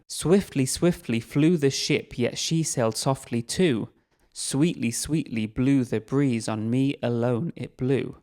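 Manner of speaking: "Swiftly, swiftly flew the ship" read slowly, each beat stressed; rhythmic reading. Shown as a demonstration. Teacher reads Coleridge aloud, stressing the rhythm. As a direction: let the ballad meter carry the words. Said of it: "listen to the rhythm".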